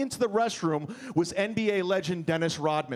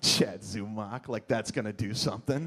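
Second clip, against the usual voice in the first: put-on drunk; 10 semitones lower, 3 dB quieter than usual. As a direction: drag it out drunkenly. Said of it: "And I'm like".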